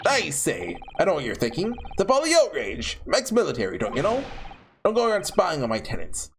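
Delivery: an old gent recounting his evening, gently put on; lightly voiced old landlord. Garridub protests his honour.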